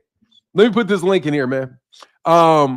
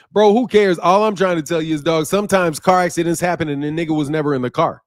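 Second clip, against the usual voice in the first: street slang. Pretend. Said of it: "I mean to say the nigga ... I'm talking like a hoodlum".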